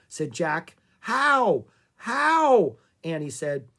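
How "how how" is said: high, loud desperate question; urgent alarm. A narrator's reading. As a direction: plead urgently, louder and higher. Annie frantic to save rhino.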